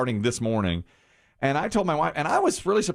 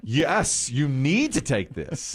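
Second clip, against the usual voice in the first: wife insisting; 4 semitones higher, much slower than usual. Retold or imitated. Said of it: "she's like".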